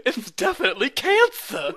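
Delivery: mock grave doctor, laughing; deadpan diagnosis breaking into laughs; House impression. Friend as Doctor House diagnosing, laughing. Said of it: "whenever I do that voice".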